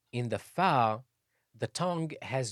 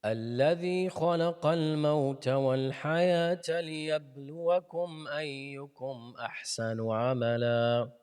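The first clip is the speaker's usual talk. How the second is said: Quran recitation; faster than usual. Acted.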